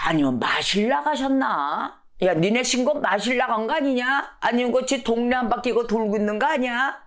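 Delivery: playful taunting questions; teasing. Acted. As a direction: needle them with mock guesses. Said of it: "놀립니다".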